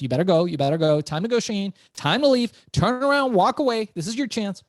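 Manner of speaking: rising, urgent self-talk to get out; urgent inner voice. Retold or imitated. Frozen in the club, telling himself to walk away, urgently. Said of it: "I was thinking to myself".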